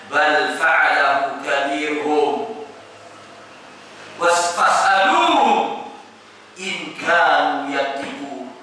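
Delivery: slow, drawn-out, composed reply; calm recitation. Acted. Ibrahim answering his accusers before the crowd, calm recitation. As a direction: recite it slowly with unhurried calm. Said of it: "Ibrahim dengan tenang mengatakan".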